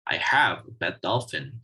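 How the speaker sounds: full strong form on "have"; stress on have. Shown as a demonstration. Teacher giving an example of a strong form, stressing "have". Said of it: "pronounced with full stress".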